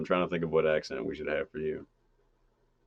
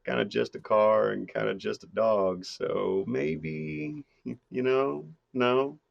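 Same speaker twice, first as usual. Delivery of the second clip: normal Midwest guy; 2 semitones higher than usual. Acted. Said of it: "just a normal guy from the Midwest".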